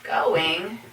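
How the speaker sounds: spaced-out question rising at the end; slow word by word. Shown as a demonstration. Teacher to students, slow second example question. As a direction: ask it slowly for learners. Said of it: "For example".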